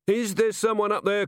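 high-pitched call up the stairs. A narrator's reading. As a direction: call up to whoever is there.

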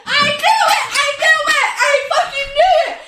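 triumphant shouting. Real, not acted. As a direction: crow it over and over like you called it. Friend triumphant at the confession.

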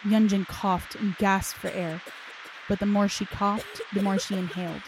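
steady dramatic audiobook narration; story narration. A narrator's reading. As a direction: draw the listener into a dark tale. Reads a dark story aloud.

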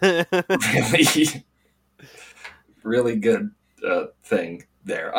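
slow, worn-out hungover voice. Real, not acted. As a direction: drag through it like a rough morning after. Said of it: "I'm very hungover right now".

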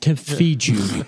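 very slow mock vegan plea. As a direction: stretch it like a preachy vegan. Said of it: "you gotta say "like" at least fifteen times".

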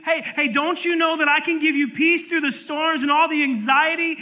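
high, loud calling out for attention; God yelling. Retold or imitated. God calling to distracted knuckleheads, loud and urgent. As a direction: raise the pitch and holler hey hey to get noticed. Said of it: "God's been yelling at you".

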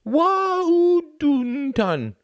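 very slow, very high, mangled words; lip held up. Acted. Greta asks Klaus a question with her lip held up, mangled. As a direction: talk while holding your lip up. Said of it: "still holding up her lip".

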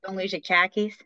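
put-on joking Boston accent; mock Boston accent. Joking about Boston speech, mock Boston accent.

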